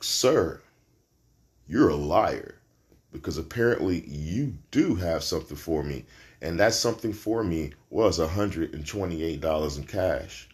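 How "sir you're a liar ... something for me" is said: mock accusation. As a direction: gloat over the man who lied about the wallet. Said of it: "and I'm like".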